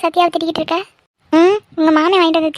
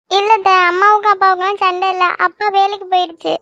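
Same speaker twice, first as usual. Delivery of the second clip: acted crying, slightly raised voice; tearful; 4 semitones higher than usual. Girl explaining to her aunt why she came, tearful. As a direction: answer through tears. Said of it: "எதுக்கு இப்ப அழுதுட்டு வந்த".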